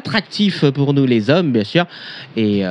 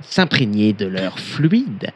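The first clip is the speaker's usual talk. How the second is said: mock solemn reading fading; 2 semitones lower than usual. Pompous reading, sinking to hush.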